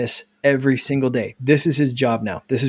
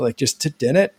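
Pac-Man sound. Shown as a demonstration. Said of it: "Like the Pac-Man sound".

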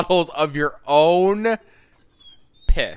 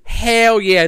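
loud, gleeful hell yeah; excited cheering; 8 semitones higher, 9 dB louder than usual. Real, not acted. Boasting about a rich wedding.

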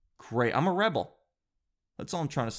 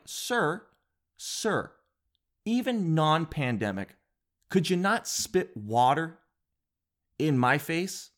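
polite mock complaint; 3 semitones higher, slower than usual. Confronting the spitting dad.

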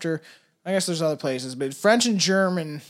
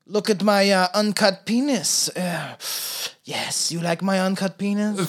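snide Frenchman. Pretend. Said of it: "so, like, snide".

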